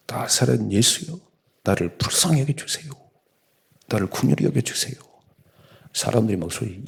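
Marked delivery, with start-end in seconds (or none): 0.1-4.9 high pleading wail to Jesus; desperate cry. Retold or imitated. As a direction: beg aloud like the blind beggar by the road. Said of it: "소리 소리 막".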